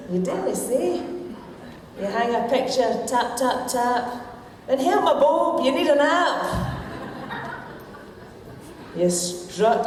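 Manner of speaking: broad Scots comic poem recital; Scottish accent. Shown as a demonstration. Woman reading her wee poem to the lassies' men, Scottish accent. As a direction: recite rhyming verse in a Scottish accent, pausing for laughs. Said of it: "read this in my Scottish accent".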